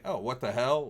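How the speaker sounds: mild bewildered question, rising at the end; confused exclamation. Shown as a demonstration. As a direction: exclaim it as if puzzled, aimed at nobody. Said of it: "Like, you're confused".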